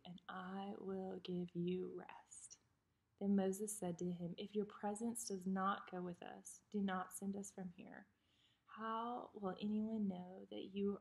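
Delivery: measured, unhurried Bible reading; scripture reading. Acted. Vlogger reads Exodus to her viewers, reverent reading.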